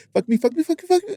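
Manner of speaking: put-on very high, rising girl's voice. Retelling what a girl said, imitating a girl's rising voice. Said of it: "her voice get higher".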